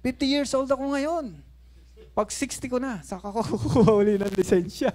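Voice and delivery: high, excited shout, laughing at the end; half-joking cry of disbelief. Retold or imitated. Pastor retelling his shock at the license to the congregation, high excited shout. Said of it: "sigaw ako, sabi ko".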